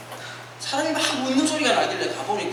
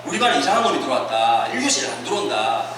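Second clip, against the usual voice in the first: lightly voiced teacher, pitched low; retold low staff-room report; teachers conferring; 8 semitones lower than usual. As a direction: report a problem pupil in a lower voice. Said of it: "선생님들끼리 얘기하잖아요".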